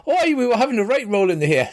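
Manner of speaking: fast, cheerful yokel voice; a lad bragging without a clue; boasting farm lad. Acted. Farm lad cheerfully admits the tryst, quick yokel voice.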